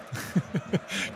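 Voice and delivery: soft airy giggle; breathy laugh. Real, not acted. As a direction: let out a quiet breathy laugh. Laughing at Rupert Lowe quote.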